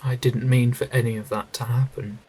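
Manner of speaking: loud, pleading outburst; loud anguished protest; desperate shout. Acted. Desperate defence against accusation.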